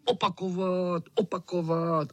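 put-on high, eager chant of the boys. A narrator's reading. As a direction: call out for an encore, each word high. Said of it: "křičeli".

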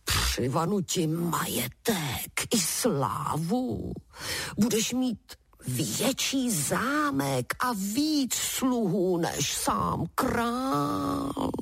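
very slow, drawn-out coaxing promise; a lightly voiced giant promising castles; promising wind giant. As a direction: lure him with riches, word by word. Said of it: "sliboval obr".

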